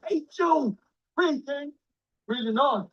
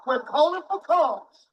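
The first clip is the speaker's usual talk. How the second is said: mock calm plea. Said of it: "like they said in Springfield".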